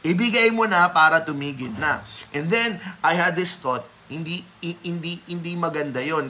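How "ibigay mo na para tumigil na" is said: louder imitation of an insistent grandfather; acted insistence, pressing the child to give in; insisting grandfather. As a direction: push the request firmly. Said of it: "kept on insisting".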